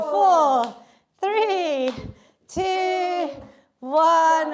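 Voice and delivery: energetic coach countdown, loud; shouted countdown. Real, not acted. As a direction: call the count over the music. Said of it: "coach counting down exercise".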